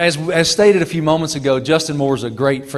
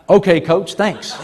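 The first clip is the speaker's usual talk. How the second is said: laughing thanks; 4 semitones higher than usual. Retold or imitated. Laughing reply to coach.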